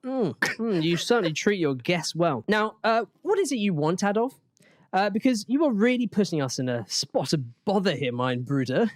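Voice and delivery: polite, stiff English gentleman asking Adolf; mock Chamberlain. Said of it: "you got a transcript you're reading from".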